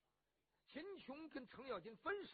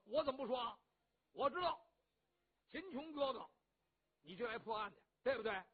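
blustering rough hero; 2 semitones higher, 6 dB louder than usual. Acted. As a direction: boom it out, boastful and warm-hearted. Cheng Yaojin voiced.

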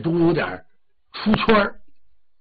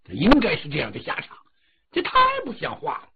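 angry king; 3 dB louder, faster than usual. Acted. King condemns the dead.

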